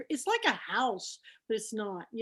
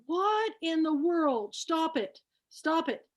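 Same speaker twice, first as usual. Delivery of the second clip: higher-pitched, incredulous retold protest; mock exasperation; 5 semitones higher, slower than usual. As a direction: beg a friend to quit the joke. Retelling her protest to amused friend.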